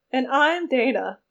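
slow wobbly warble; warbling. Acted. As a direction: drag it out in a wavering voice. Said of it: "warbled the blonde".

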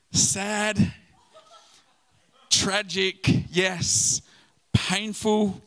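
lightly mocking indifference, sighing over the loss; dismissive shrug. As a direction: play it off as a mild shame. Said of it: "I'm like".

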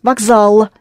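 Vokzal said clearly, stressed on zal; model word. Shown as a demonstration. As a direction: say Vokzal with a z in the middle. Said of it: "that's how you spell it".

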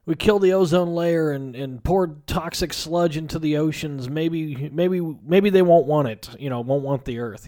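a mildly tipsy rant, stumbling and repeating; drunken rambling. Retold or imitated. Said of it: "he's obviously drunk".

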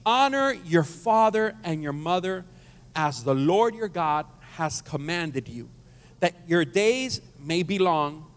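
measured, slow reading of the verse; slow scripture reading. Real, not acted. Pastor reading the verse to the congregation, slow and measured. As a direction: lay each phrase down slowly. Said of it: "Let's read it again".

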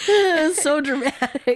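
slow, laughing through the words. Real, not acted. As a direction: let the laugh carry it. Still laughing at the doll.

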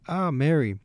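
high, loud joyful cry; joyful exclaim. A narrator's reading. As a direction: greet her with tearful joy. Tearful reunion greeting.

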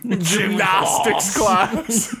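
high, slow, drawn out; mock posh British voice. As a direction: drawl it out posh.

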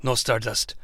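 low, soft, hushed mock-tender farewell; hushed overly tender father figure; tender mentor voice. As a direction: ham up a sappy heartfelt goodbye. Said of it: "share a very tender moment".

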